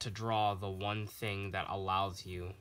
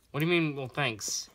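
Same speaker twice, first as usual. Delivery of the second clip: louder, higher exasperated comeback; mock indignant; 5 semitones higher, 8 dB louder than usual. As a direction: burst out in playful offence. Repeats the indignant question, escalating.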